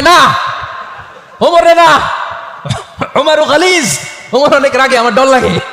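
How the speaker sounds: Aisha's voice. Acted. Aisha's frightened reply in story.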